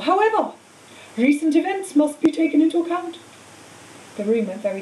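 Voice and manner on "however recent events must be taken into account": lightly voiced old headmaster, higher-pitched; headmaster's formal announcement. Dumbledore qualifying Slytherin's win, formal announcement. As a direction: pronounce it with measured weight. Dumbledore continuing his feast speech.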